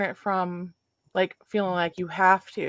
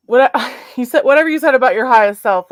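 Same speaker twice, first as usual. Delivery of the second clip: laughing; 6 semitones higher, 9 dB louder, faster than usual. Real, not acted. Laughing while recalling a friend.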